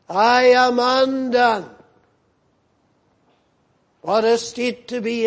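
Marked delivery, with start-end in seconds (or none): 0.1-1.7 anguished cry. Acted. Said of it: "what does he cry out".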